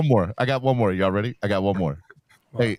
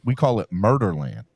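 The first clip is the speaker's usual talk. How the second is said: "Murderland" lowered and leaned on; stress on Murderland; 5 semitones lower than usual. Shown as a demonstration. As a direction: mark "Murderland" as the nickname. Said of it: "we don't call it Maryland".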